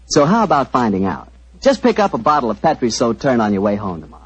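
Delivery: friendly radio ad pitch; cozy old-time sponsor spot; commercial read. Acted. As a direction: sell the wine to the folks at home.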